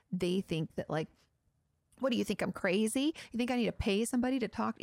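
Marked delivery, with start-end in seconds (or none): 2.0-4.8 mildly indignant mock retort; offended. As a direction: act a touch insulted by the suggestion. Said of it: "can still be offended".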